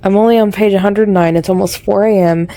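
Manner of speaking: talking loud with a pen in mouth; lisping around a pen in teeth. Real, not acted. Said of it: "I have my pen in my mouth, which is why I have a lisp".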